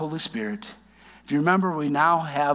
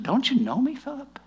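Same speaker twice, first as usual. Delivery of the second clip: pleading Jesus; 9 semitones higher than usual. Acted. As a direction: plead gently with a hurt friend.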